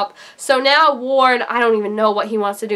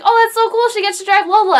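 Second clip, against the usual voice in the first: high, excited fan gush; squeal-lite delight, reliving it; delighted reaction; 10 semitones higher, 4 dB louder than usual. Retold or imitated. Own delighted reaction retold.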